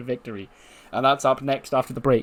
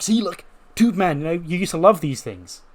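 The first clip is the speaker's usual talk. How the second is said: eager show-off; 5 semitones higher than usual. Acted. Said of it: "It's like".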